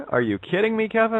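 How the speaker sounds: can't believe what he just heard; incredulous disbelief. Real, not acted. Host to guest Kevin, astonished and incredulous. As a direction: pitch shooting up in amazed disbelief.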